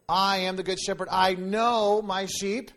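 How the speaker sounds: slow emphasis. Shown as a demonstration. Slow emphatic scripture quote.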